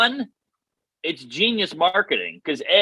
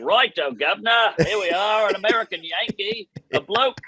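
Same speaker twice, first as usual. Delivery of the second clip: a hammed-up, higher British accent; mock British accent; 4 semitones higher than usual. English girls fawning over an American, mock British accent. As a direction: play an English girl, British accent overdone. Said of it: "I can't do the accent".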